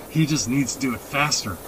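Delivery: quiet grumble; under his breath. A narrator's reading. Dad grumbles about the horse, under his breath. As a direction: grumble it softly, half to yourself. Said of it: "under his breath".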